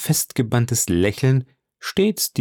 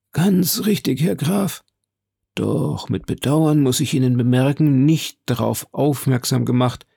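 higher-pitched, put-on character voice; high, regretful admission; apologetic Lucchese major; 4 semitones higher than usual. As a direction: speak up high as the sheepish visitor.

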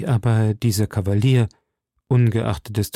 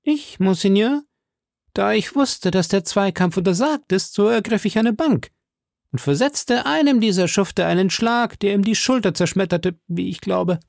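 much higher, hearty swaggering voice; boastful musketeer; 8 semitones higher than usual. A narrator's reading. Musketeer boasts to the cardinal about the bench, much higher swaggering voice. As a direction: play the blustering strongman proudly.

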